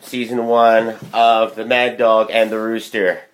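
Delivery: slow, projected podcast intro; measured host's welcome; show announcer. Acted. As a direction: announce the show to your listeners, drawn out. Opens the show as host.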